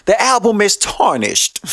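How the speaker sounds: slow mock drawl of a rapper; slow, careful mock of a rapper saying "tarnished"; imitating a rapper. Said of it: "They say".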